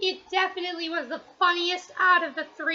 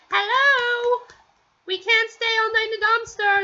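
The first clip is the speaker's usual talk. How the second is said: raised, high calling for help; mock shout, louder and higher; imitated shouting; 5 semitones higher, 5 dB louder than usual. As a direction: call out loudly as if stranded. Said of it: "we see them shouting".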